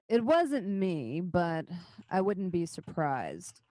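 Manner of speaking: slow, deliberate denial; Garrosh. Acted. Surly councillor accused of faking a dragon, grudging. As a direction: deny it wearily, taking your time. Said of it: "Garrosh says".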